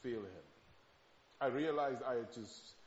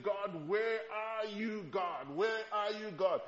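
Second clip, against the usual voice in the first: desperate prayer; 6 semitones higher, 4 dB louder, slower than usual. Retold or imitated.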